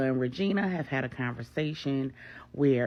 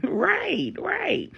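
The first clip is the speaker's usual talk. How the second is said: laughing; 6 dB louder than usual. Acted. So they laugh.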